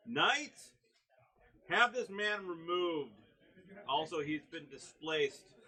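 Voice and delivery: loud, high-pitched shout to the guards; screaming command. Acted. Leader ordering knights to remove a man, screaming. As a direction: yell it out like a leader summoning knights. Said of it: "top of his lungs, screams".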